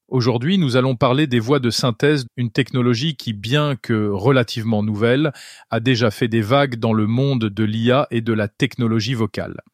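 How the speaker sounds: early AI clone of his voice; synthesized voice. Shown as a demonstration. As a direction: read it like a cloned text to speech voice. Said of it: "ma propre voix synthétisée à l'aide du système Eleven Labs".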